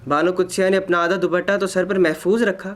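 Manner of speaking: ordinary delivery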